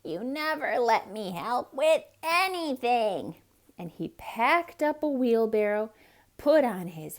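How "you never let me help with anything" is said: wailing. Acted. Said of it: "wailed the duck".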